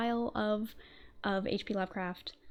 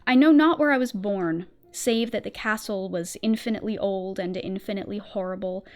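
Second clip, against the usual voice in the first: slow, hushed gothic storytelling; story narration. Acted. Reads the story in ASMR narration.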